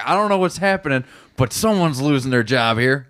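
imitating a fed-up guest, starting high; irate hotel guest. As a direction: mimic a stranger who wants someone held to account. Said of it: "he's like".

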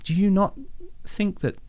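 mock the barricade builders with disbelief; high, laughing sarcastic disbelief; incredulous mockery. Mocking the convoy's snow barricade.

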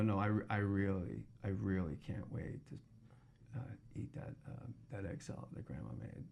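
soft, whispered sarcasm; sarcastic. Retold or imitated. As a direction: say it dripping with quiet sarcasm. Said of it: "if a kid laughs at sarcasm".

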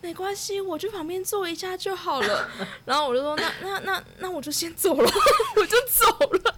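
high-pitched giggly wrap-up; laughing as she tells how she walked away. Real, not acted. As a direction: keep cracking up to the end. Ending story in laughter.

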